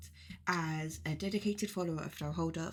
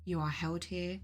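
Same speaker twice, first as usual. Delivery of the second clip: guided meditation. Acted. Leading listeners on a journey to the mead hall, guided meditation. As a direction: guide listeners unhurriedly, phrase by phrase.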